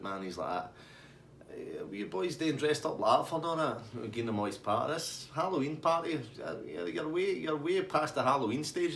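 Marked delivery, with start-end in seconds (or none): 1.5-3.8 chilled out. Retold or imitated. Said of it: "he's totally fucking chilled out". 4.9-8.9 chilled out. Retold or imitated. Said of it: "he's totally fucking chilled out".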